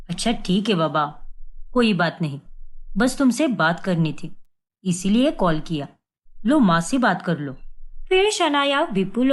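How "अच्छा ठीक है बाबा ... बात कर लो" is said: lightly voiced husband. Vipul voiced by narrator.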